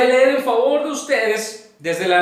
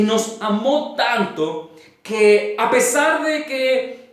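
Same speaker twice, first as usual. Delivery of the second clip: deliberate pulpit reading with long pauses; solemn scripture reading. Acted. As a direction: read out the passage in weighted phrases. Reads scripture aloud to congregation.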